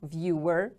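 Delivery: "Viewer" with the stress on VIEW; first-syllable stress. Shown as a demonstration. Teacher models the word for repetition, "Viewer" stressed on VIEW. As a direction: lean on the start of "Viewer": VIEW-er. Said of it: "The stress is on the first syllable".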